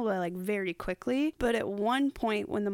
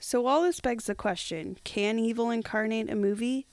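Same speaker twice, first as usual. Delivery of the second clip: "can evil incarnate a movie" rising at the end; NPR-style read, lifting "movie"; reporter question. Shown as a demonstration. Host redoing the intro, "movie" rising like reporter. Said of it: "Let's see if I can do it again".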